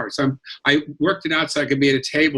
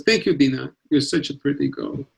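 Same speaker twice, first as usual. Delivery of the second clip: put-on old-country Jewish compliment, lightly accented; Eastern European Jewish accent. Shown as a demonstration. Thanking the host for her praise, Eastern European Jewish accent. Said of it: "that accent is, like, spot on".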